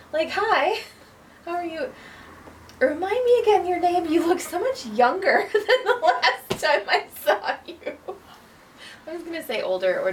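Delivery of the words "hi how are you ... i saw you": fake-friendly acquaintance. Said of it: "somebody else's line who would be like".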